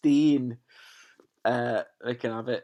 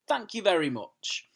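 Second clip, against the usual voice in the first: smug Dursley aside; 8 semitones higher than usual. Acted.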